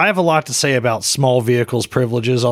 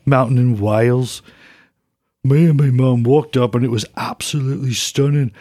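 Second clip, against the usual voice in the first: lightly voiced Brummie rocker reading a fan letter; a hint of a rock singer, mostly his own voice, laughing now and then; rock singer impression. Podcast host reads a listener's letter as a rock singer, lightly mimicked. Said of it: "I'm gonna read it like a rock singer".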